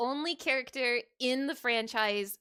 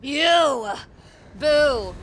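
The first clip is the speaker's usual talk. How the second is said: shouting; 12 dB louder than usual. Real, not acted. Yelling at the screen.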